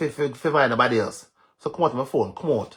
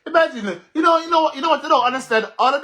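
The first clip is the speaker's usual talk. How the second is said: words broken by laughter, higher; laughing; 10 semitones higher, faster than usual. Real, not acted. Vlogger laughing at her damaged viewers, giggly and high.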